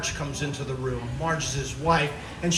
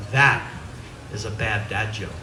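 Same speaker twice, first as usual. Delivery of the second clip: smug punchline; 8 semitones lower than usual. Acted. Wife's punchline to husband.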